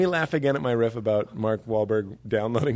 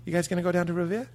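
fast Boston question about Revere; Boston accent; 4 semitones higher, 4 dB quieter, faster than usual. Acted. Coach asks in a Boston accent. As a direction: ask like a local. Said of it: "practice our Boston accent".

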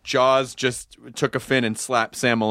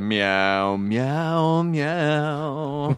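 cat meowing. Pretend. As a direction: meow like a cat.

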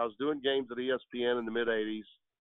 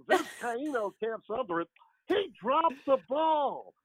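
Harry Caray impression; 8 semitones higher than usual. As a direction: do the old Cubs announcer, hamming it up. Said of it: "that's a little bit of Harry there for you".

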